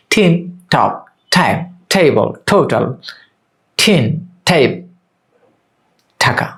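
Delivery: slow spaced words, puff on t in "টিন, টপ"; aspirated T drill. Shown as a demonstration. Teacher repeating the drill for learners, slow aspirated "টিন, টাইম". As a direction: model "টেবল" slowly with an aspirated t. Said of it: "একইভাবে টি দিয়ে ঠ".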